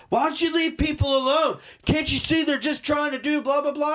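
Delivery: high, whiny nagging busybody; mock heckler. Passerby scolds the trooper, in a high mock whine. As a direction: squeak it out like a meddling passerby.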